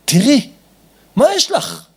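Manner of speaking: high, loud exasperated jab; acted irritation. Husband denying his wife's pain, high irritated dismissal. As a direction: snap it dismissively, as an impression.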